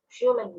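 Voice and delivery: "shilling" with no K after the opening sound; silent K sound. Shown as a demonstration. Teacher showing which consonant is silent, no K in "shilling". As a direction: say "shilling" leaving out any K. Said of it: "mình không được phát âm K".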